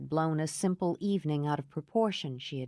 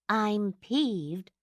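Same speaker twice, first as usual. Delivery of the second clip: "peeved" leaned on, a touch higher; stress on peeved; 4 semitones higher than usual. A narrator's reading. Laura to her friends, leaning on "peeved". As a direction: press the word "peeved" in mild annoyance. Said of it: "emphasizing the word".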